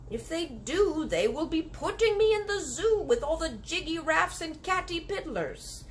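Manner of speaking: a big friendly giant fearing the zoo. Acted. Giant telling the girl his fear, worried. BFG voiced in story.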